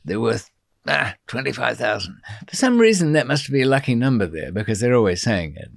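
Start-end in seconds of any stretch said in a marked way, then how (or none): 0.0-2.2 imitated Mexican accent, lightly done. Deputy governor pricing the foreigners, light Mexican accent. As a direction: slip into a mild Mexican accent. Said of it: "I'm using a Mexican accent".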